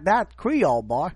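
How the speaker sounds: high, loud mock Creole accent; hammed-up Louisiana Creole twang. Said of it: "French Cajun, uh, Creole going on".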